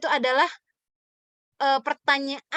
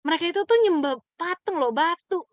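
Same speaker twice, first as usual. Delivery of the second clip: higher, pointed rebuke; a blunt mocking jab at idol worshippers; exasperated nggak mikir apa, a bit higher; mock scolding; 4 semitones higher, 3 dB louder than usual. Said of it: "bahasa kasarnya kita".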